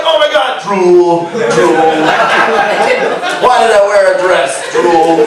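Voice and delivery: low, mock-swooning woman; a girl melting at a British accent, lightly voiced. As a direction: drool over him, hammed-up. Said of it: "you're like".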